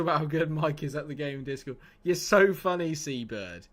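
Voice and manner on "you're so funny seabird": sarcastic. Real, not acted. Sarcastic reply to chat.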